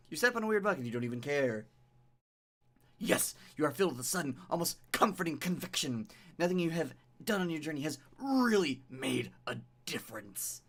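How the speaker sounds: measured second-person game narration; dramatic story narration. A narrator's reading. Streamer reading the game's beach scene to viewers, dramatic narration. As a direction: read it like an atmospheric tale.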